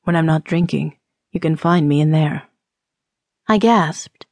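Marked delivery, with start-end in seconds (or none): 0.0-2.5 teasing rogue. Acted. Teasing man points to brothel.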